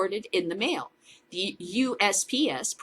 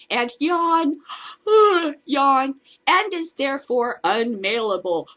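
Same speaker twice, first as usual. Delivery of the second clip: hammed-up bored yawns, higher and louder; mock yawning; 6 semitones higher, 6 dB louder, slower than usual. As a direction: ham up how boring this is. Mocking boring official statement.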